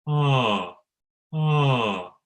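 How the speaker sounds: steady sung ah; voiced ah with the cords closed; clean vocal onset. Shown as a demonstration. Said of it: "and think".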